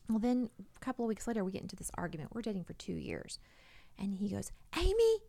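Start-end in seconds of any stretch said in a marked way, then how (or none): 4.8-5.2 loud, high yell of a name; high-pitched acted holler; retold yell. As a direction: imitate the boyfriend yelling in an argument. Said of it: "like, he's yelling at me".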